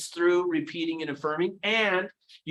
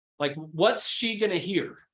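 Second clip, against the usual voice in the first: ordinary talk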